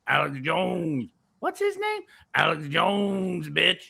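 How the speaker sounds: a hint of rumbling in the voice; lightly put-on impression, stretch the name; Alex Jones. Complaining to Vic that nobody buys, lightly rumbling impression. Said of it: "it's a hard voice to do".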